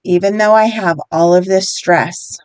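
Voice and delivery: slow, measured repeat-after-me delivery; guided affirmation. Shown as a demonstration. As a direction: lead them through it slowly, phrase by phrase. Leads repeat-after-me tapping statements.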